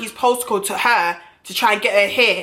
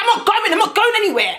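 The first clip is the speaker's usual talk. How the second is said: pitched up, laughing a little, mock serious; high defiant refusal; 10 semitones higher than usual. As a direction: insist you're staying, voice up high. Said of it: "I was so dead ass serious".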